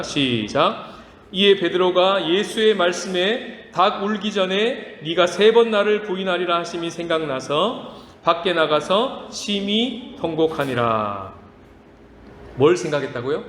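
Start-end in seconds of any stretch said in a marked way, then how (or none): 1.3-11.3 slow, measured reading aloud of the verse; slow scripture reading. Shown as a demonstration. Pastor leads the church reading scripture, slow and measured. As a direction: read the verse slowly with the congregation. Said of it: "다 같이 한번 스크린 보시면서 읽어보시겠습니다".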